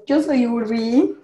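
ronca, lenta, como señora fumadora; voz rasposa de fumadora. Real, not acted. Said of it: "Con voz de señora fumadora". (voz de señora fumadora)

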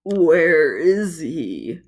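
whispered nervous croak, slow. A narrator's reading. Toad creature asks its partner, nervous whispered croak. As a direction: croak it out fearfully, almost breathless. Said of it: "croaked nervously".

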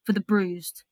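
measured, rhythmic poetry recital, lines set apart by pauses; spoken-word poem. Acted. Poet reading her piece to podcast host, spoken-word delivery. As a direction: perform an encouraging poem, landing each alliteration. Reads own poem aloud.

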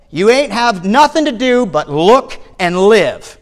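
emphatic rustic exhortation, coming down from a shout; a touch of shouted pulpit urgency; preacher's shout easing off. Acted. Preacher urging the young man to live, easing from shouting. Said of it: "he shouted as only a primitive Methodist could".

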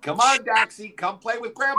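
put-on high, coaxing creepy old man; creepy grandpa coaxing. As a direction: lure him in like a creepy grandpa.

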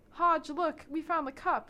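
high and loud, proudly reporting; excited. Retold or imitated. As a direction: burst in with good news. Clary excitedly reports to Hodge.

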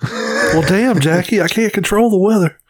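high-pitched, playful imitation; echoed catchphrase. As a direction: echo the bit in a put-on high voice.

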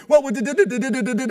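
high, loud stuttering caller; flustered stammer. Retold or imitated. Caller caught off guard by a no, flustered stammering. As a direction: stumble over the words in panic. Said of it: "and I go".

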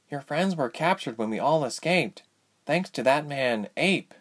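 high, measured character voice; consoling cellmate. Acted. Goose consoles Ilse from next cell, high consoling voice.

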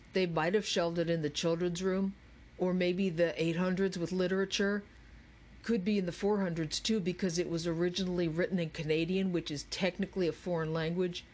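quick, lightly voiced bookish know-it-all; know-it-all Andrew. Andrew lists possible shelves to impatient Charles, quick know-it-all patter. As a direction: rattle off theories with a touch of pedantry.

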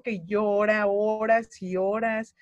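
desperate. Retold or imitated. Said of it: "lloraba desesperada".

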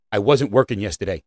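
put-on low-pitched, understated kid's excuse; lightly voiced indifferent employee; drive-thru kid. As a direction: drop the pitch for the counter kid. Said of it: "Then the kid looks at you and says".

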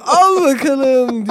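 drawn-out high call, imitated; triumphant call. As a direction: stretch it out high like a thrower's shout. Topu geri atarken seslenme. (uzatarak, tiz bir seslenme taklidi)

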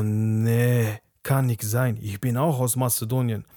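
slow, lightly put-on Albanian accent; a hint of an Albanian accent, drawn out; mock Albanian accent. Mocking the Albanian guest's accent while retelling the visit, slowly. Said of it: "wie die Albaner reden mit ihrem Akzent".

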